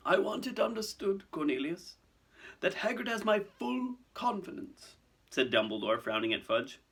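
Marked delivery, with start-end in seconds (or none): 0.1-5.0 put-on high, measured elderly authority; firm old headmaster. Dumbledore defending Hagrid to Fudge, firm. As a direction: state it firmly without raising volume.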